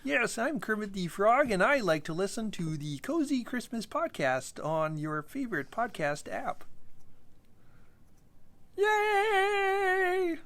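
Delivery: high, cheery frog puppet voice; bright cartoon frog, ending in a sung yay; Kermit the Frog voice. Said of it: "Your Kermit the Frog impression is really good".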